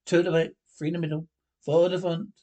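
shouting out the formation; pundit calling out the lineup, loud; shouted lineup. Acted.

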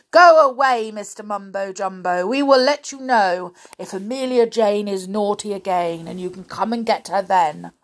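firm order with a loud start; stern. Acted. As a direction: send the intruder off with authority. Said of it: "spoke sternly through".

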